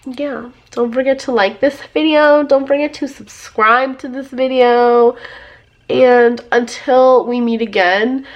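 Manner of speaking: hoarse voice from a cold; sick voice. Real, not acted. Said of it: "just my voice. I'm sick".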